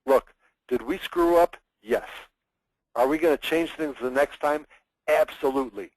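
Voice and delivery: conviction. Shown as a demonstration. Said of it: "take ownership of a problem".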